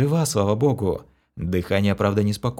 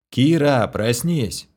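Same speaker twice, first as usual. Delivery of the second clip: sharp loud wake-up call, voice raised high; growl; 4 semitones higher, 4 dB louder, slower than usual. Acted. Shaking the girl awake, a loud growl. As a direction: bark her awake. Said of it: "рыкнул я".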